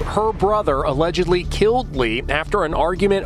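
punchy tabloid news read; tabloid tv host. Acted. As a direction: sell the scandal like a tabloid host. Tabloid crime report read.

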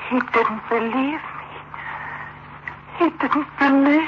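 slow, soft despair; hopeless murmur. Acted. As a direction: say it broken and slow. Despairing woman facing killer.

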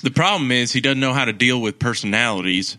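lightly put-on Southern sports-radio take; Southern accent. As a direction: complain in a mock Southern accent. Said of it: "in a Southern accent".

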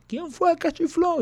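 high, slow indignant demand; angry demand. Retold or imitated. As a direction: play the furious officer, slowly. Officer demanding who whistled. (oficial indignado, agudo y lento)

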